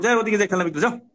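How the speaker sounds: acted irritation, brushing someone off; annoyed. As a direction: shoo the seller away, annoyed. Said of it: "বিরক্ত হয়ে".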